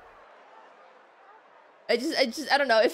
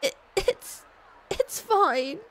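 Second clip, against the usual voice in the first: high, stammering through tears; acted tearful; 7 semitones higher, slower than usual. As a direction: choke out the words, pretending to cry. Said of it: "I'm assuming she's crying".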